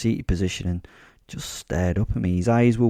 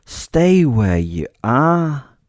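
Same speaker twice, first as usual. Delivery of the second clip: loud, very slow order, pitched up; yelled command; 5 semitones higher, 7 dB louder, much slower than usual. Acted. Narrator ordering the injured boy to stay, yelling. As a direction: stretch out each word to pin him down. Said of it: "I yelled".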